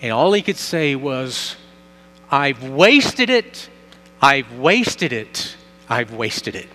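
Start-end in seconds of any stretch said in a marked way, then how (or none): 2.3-6.7 slow repeated lament, fading off at the end; old man's lament. Retold or imitated. Preacher voicing the dying man, mournful repeated lament. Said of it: "he begins to say it in a loud voice".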